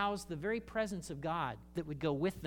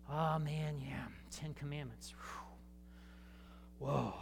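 mock awe; 3 semitones lower, 8 dB quieter than usual. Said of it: "Americans will talk about".

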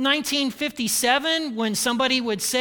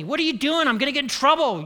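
retold yell; 5 semitones higher, faster than usual. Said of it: "he yelled at me".

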